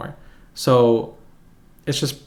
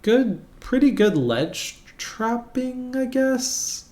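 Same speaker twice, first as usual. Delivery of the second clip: grudging praise; 11 semitones higher, much slower than usual. Real, not acted. Grudging praise of opponent's strengths.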